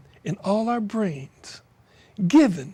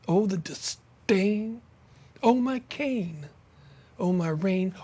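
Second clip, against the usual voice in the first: poem recital. Acted. Poet reading a rain poem aloud, declamatory. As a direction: let each line ring like a lament.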